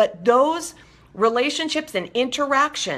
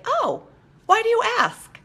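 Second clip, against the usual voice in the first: light and high, friendly and curious; a sunny, innocent "why do you ask?" with a high, rising lift; bright curious ask; 14 semitones higher than usual. Shown as a demonstration. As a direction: ask it brightly, with no edge at all. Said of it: "by taking that moment to say".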